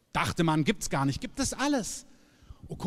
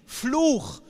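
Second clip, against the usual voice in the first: Fluch, shouted higher and louder as the final blow; preached loudly; 6 semitones higher, 4 dB louder than usual. Real, not acted. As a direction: hit Fluch hard and high. Climax of preached list.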